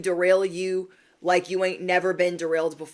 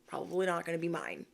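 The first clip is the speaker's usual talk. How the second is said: soft, hushed kiss-off, trailing quieter; soft, polite brush-off to someone you're dropping; sweetly dismissive; 2 semitones lower, 9 dB quieter than usual. Retold or imitated. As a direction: say it nicely with a bow on it. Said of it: "give them an inhaler with a bow and say".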